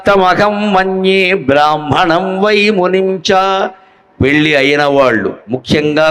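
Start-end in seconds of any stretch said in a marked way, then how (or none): 0.1-3.3 slow, measured Sanskrit shloka chant; verse recitation. Shown as a demonstration. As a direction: intone the verse with care, restarting to get it right.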